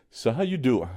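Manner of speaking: flirty Joey pickup line, lightly done; self-deprecating try at Joey's "So how you doing?"; Joey Tribbiani impression. Shown as a demonstration. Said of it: "I can't say it like Joey Tribbiani".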